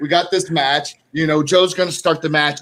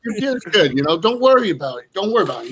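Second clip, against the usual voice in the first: reassuring; 4 semitones higher, faster than usual. Retold or imitated. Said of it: "I'm like".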